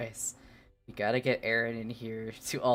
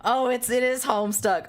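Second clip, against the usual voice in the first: laughing realization; 9 semitones higher, 4 dB louder than usual. Real, not acted.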